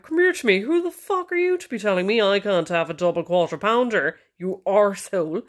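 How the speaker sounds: high, indignant retort; mock telling-off. Wife challenging husband over a burger, mock indignation.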